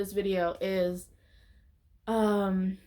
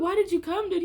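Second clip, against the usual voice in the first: much higher incredulous question; hammed-up high why-are-you-here; mock disbelief; 9 semitones higher, 3 dB louder than usual. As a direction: imitate them, baffled and a bit louder. People asking the boyfriend.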